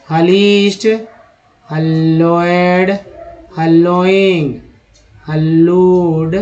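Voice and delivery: हलोएड and हलूड stretched out slowly; slow demo pronunciation. Shown as a demonstration. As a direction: dictate each word slowly. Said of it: "चलिए next देखते हैं". (धीमा उच्चारण)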